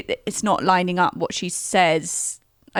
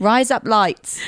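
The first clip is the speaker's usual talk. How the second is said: slower, lightly Australian "Rise up lights"; attempted Australian accent; 2 semitones higher than usual. Shown as a demonstration. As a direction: try an Aussie lilt on it. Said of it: "trying to do it a bit Australian".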